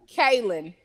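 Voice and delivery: Kaylin as KAY-lin, reduced ending; correct name pronunciation. Shown as a demonstration. Co-host correcting a nickname, Kaylin ending in "lin". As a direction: say Kaylin with a light, short last syllable. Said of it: "it's really not Kaylon".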